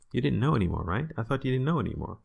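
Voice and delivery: quick, mocking "I thought you didn't know anymore"; teasing reproach. Shown as a demonstration. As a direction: rush the tease out. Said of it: "it's kind of like".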